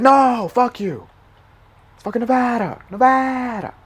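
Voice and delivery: high, loud mock yell back; defiant retort. Retort to Trump, loud and indignant.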